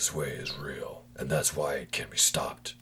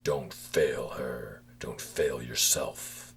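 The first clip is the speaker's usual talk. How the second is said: slow urging; slower than usual. Acted. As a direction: lean in and urge gently. Voice urges slowly.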